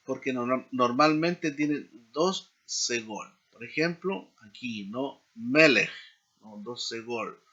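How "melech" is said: "Melech" with the accent up front; first-syllable stress. Shown as a demonstration. Teacher showing learners a two-segol noun, first-syllable stress on Melech. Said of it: "cae el acento sobre la primera sílaba".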